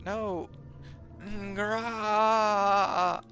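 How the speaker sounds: high, loud, screaming panic; screaming terror. Acted. Victim to the attacker, screaming and begging for help. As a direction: scream and beg as he comes at you.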